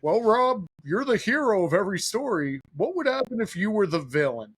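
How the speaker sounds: lifting buddy challenging him, a light mock baritone; imitating a stoic baritone friend. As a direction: play it as a stoic friend's blunt question. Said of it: "he has a big baritone voice".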